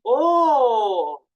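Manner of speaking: hammed-up astonished "oh"; surprised interjection. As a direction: let out a big demonstrative gasp of surprise. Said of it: "se sorprendió y dijo".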